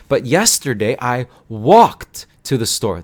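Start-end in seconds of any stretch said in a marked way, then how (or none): 1.5-2.3 "walked" as a single beat ending in kt; careful "walked", no extra vowel; one-syllable walked. Shown as a demonstration. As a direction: say "walked" slowly as "walkt". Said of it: "That's one syllable".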